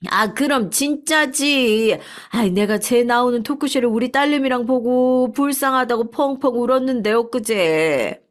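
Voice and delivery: chatty restaurant owner. Acted. 식당 주인이 놀란 손님에게 확신하며, 높고 느리게. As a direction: insist it's true to the stunned customer. Owner confirms the talk show story.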